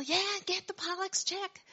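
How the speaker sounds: "Yeah, get the Pollock's check" called out high, like yelling across the room; mock yell. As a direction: call it to someone in the back, half-acted. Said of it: "he yells to Giselle".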